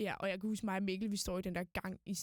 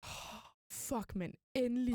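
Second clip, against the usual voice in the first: relieved sigh; 3 semitones higher, slower than usual. Retold or imitated. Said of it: "Jeg var bare sådan".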